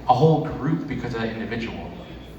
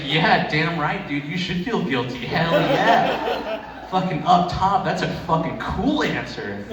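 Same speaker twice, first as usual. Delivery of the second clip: mock cheering; 5 semitones higher, slower than usual. Coworker cheering on shocking answer.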